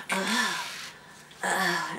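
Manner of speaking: mild acted headache groan; pained groan. Student doubled over with a blazing headache, mock groaning. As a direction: groan as if the head aches.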